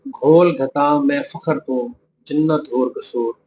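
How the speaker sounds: slow, measured poetry recitation; recited couplet. Shown as a demonstration. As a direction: recite the verse slowly for dictation. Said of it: "दूसरा शेर". (धीमे से शेर पढ़ना)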